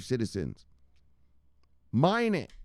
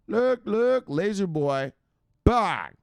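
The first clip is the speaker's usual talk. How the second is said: excited shout; 9 semitones higher, 5 dB louder, slower than usual. Real, not acted. Celebrating laser eyes.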